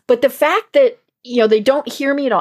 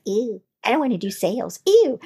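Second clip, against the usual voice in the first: disgusted; 4 dB quieter than usual. Pretend. Making the disgusted face.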